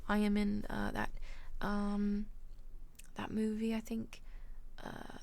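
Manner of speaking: put-on halting British-accented introduction. Streamer posing as an actress for chat, British accent. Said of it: "talk in a British accent".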